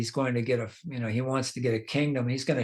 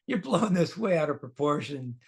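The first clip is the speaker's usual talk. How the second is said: put-on higher, gently persuading a child; compassionate coaxing; 3 semitones higher than usual. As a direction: talk a stubborn boy down kindly. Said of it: "show some compassion on him".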